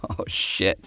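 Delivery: hushed, breathy oh shit; a quick whispered curse of dread. Retold or imitated. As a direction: mutter it under your breath in dismay. Dismayed aside on hearing news.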